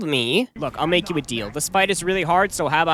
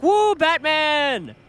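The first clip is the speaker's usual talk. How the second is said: goofy fan voice; 8 semitones higher, slower than usual. Pretend.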